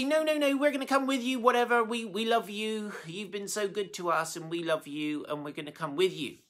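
high, insistent protest at first, settling toward plain; a mild hint of two young women begging to stay; pleading daughters-in-law. Daughters-in-law begging Naomi to take them along, high and pleading.

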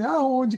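aonde agudo e caindo; aonde como recusa. Shown as a demonstration. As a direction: aonde seco, como quem diz não quero. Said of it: "Você fala assim". (aonde agudo e descendo, recusando)

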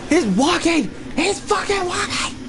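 high panicked cry; alarmed disbelief; panicking gamer. Real, not acted. Monster recovers.

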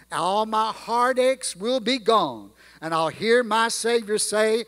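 put-on reciting old gospel lyrics in a rolling preaching cadence; hymn recitation. Preacher reciting a remembered hymn to the church, rhythmic and heartfelt. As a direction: let the hymn verse swell and settle.

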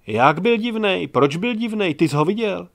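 loud, eager asking; eager questions. Acted. Classmates pressing Gajdošík, eager. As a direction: press him for details.

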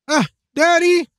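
high whine through pinched nose; holding nose. Acted. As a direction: whine to daddy, nose held. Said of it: "Emily held her nose".

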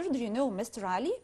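slow, clear English question for students; slow demo. Shown as a demonstration. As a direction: spell it out gently for beginners. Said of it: "يبقى بقول". (سؤال بطيء وواضح)

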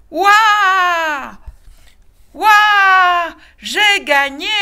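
high, loud triumphant whoop; little wolf shouting in triumph; excited cry. A narrator's reading. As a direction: whoop it out like she just won. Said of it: "s'écria la petite".

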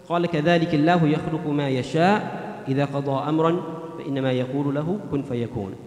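fast, flowing chanted Arabic recitation; Quran recitation. Acted. Imam reciting a verse to the congregation, chanted recitation.

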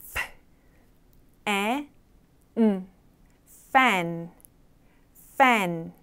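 teacher sounding out "fan" piece by piece; sound-by-sound demo. Shown as a demonstration. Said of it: "발음 기호 같이 한번 연습해".

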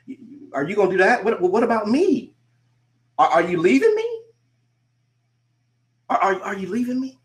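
high, fast, pleading voice; clingy whiner. Retold or imitated. Coach mimics a clingy friend pleading, high and whiny. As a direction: beg them not to leave you.

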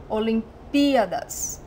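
Olimpíadas with the pí stressed. Shown as a demonstration. Teacher repeats the correct form, pí stressed. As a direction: land the weight on pí in Olimpíadas. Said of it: "we have to say the emphasis on the P".

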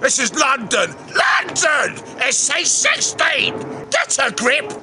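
hammed-up London tough guy; mock cockney rant. Host defends London to camera, mock cockney rant. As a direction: draw out the cockney bragging.

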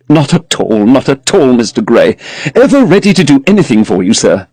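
a hint of an eager, deferential tradesman; frame-maker eagerly obliging Mister Gray, lightly voiced.

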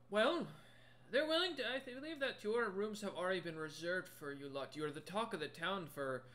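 high-pitched troll, settling as he explains; helpful troll shopkeeper. Acted. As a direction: reassure guests as an obliging troll. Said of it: "as you hear in your head once more".

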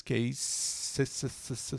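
Case, se, with a hissing English S; English s sound. Shown as a demonstration. Teacher contrasting sounds for students, hissing S in se. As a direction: keep the S in se voiceless. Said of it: "som de S em inglês".

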